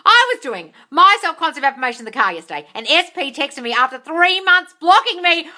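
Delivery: excited reread of the good news; excited shout. Real, not acted. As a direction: shout it with glee. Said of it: "rereads comment loudly, excited".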